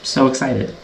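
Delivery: low, soft murmur of excitement; excited but keeping the volume down; hushed excitement. Real, not acted. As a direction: bring it right down, low and quiet. Drops voice after noticing own yelling.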